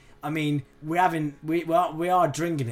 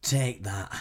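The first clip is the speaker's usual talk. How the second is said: a singer; 6 semitones lower, 6 dB quieter, much slower than usual. Pretend. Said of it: "you sound like a singer".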